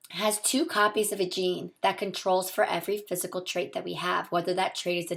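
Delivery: hoarse from a sore throat; talking through a sore throat. Real, not acted. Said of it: "I do have a really sore throat".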